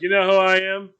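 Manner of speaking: loud, high entitled demand; drunken bluster. Retold or imitated. Drunk driver challenges the cop: loud bluster. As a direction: bluster like a drunk big shot.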